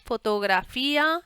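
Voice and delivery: stretched out slowly while typing; slow dictated field title; slow dictation. Shown as a demonstration. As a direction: drag the word out as you type it. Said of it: "Y el título que vamos a poner".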